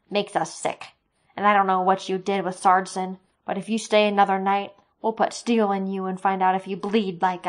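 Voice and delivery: angry threat. Acted. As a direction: threaten them, loudly. Soldier threatens the creatures.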